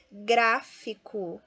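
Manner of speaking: "Gráfico" slow, GRÁ punched; stress on first syllable. Shown as a demonstration. Teacher shows students the strong syllable, slow "Gráfico" stressed on GRÁ. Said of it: "a primeira é a mais forte".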